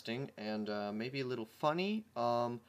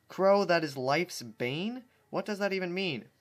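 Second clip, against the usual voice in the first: puzzled; 5 semitones higher, 4 dB louder than usual. Acted. Dash reads confused name.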